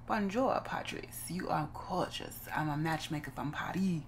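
badly faked French accent; clumsy mock-French matchmaker; horrible French accent. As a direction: attempt a Parisian accent and miss. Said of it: "That was a horrible accent".

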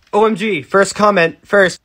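high-pitched eager commenter; mock excitement. Commenter boasting of being first under a grim video, giddy. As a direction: imitate a commenter racing to be first.

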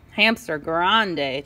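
put-on Spanish accent with effort; Spanish-accented groan. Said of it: "Chinchetta groaned".

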